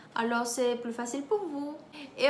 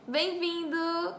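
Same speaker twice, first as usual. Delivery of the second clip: slow demo word; 3 semitones higher, slower than usual. Shown as a demonstration.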